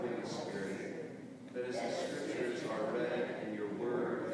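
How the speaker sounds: congregational prayer. Real, not acted. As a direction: lead the prayer steadily, drawing out each phrase.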